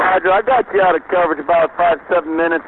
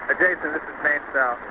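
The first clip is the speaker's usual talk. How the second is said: crackly military radio; 11 dB quieter than usual. Real, not acted. Radio call from main cell.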